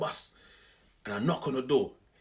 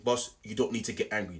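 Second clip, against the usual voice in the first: a softer, controlled calm; calm, cool reply; 5 semitones lower, 4 dB quieter than usual. Retold or imitated. Calmly telling the angry bus driver to settle down. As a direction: keep your cool, no heat in it. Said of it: "I just kept my cool".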